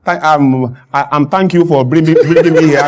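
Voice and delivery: acted fumbling with ums and restarts; halting speech. Guest thanking the hosts in poor grammar, halting and fumbling. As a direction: stumble through a thank-you, pretending to lose the words. Acts out fumbling English on stage.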